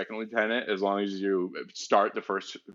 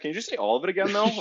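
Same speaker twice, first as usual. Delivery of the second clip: high, put-on voice; squeaky caricature asking again; mock caller; 11 semitones higher, much faster than usual. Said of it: "And he's like".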